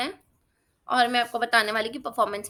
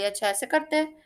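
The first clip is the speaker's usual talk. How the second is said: mock scolding; 5 semitones higher than usual. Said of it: "तो मैं बोली".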